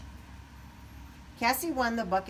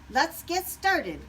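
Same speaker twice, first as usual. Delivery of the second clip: eager Wing; 9 semitones higher, 5 dB louder, slower than usual. A narrator's reading. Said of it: "Wing said".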